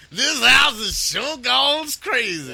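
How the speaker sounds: high, slow, loud, laughing through it; repeating the cartoon line through laughter; laughing catchphrase. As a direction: crack up while saying it.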